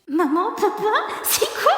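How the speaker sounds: put-on a little girl begging to know; curious child. Brooke asks her parents.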